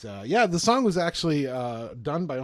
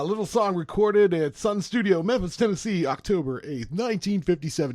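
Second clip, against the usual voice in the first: oldie-timey radio voice; 2 semitones higher than usual. Pretend. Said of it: "my oldie-timey radio voice".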